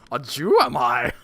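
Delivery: slow, badly faked Jewish accent; mock Jewish accent. Player answering criticism of his accent, mock Jewish accent. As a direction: exaggerate a clumsy Jewish accent. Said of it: "Except for the Jewish accent, that needs work".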